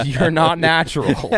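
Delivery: emphatic. Real, not acted. Emphatic repeated claim.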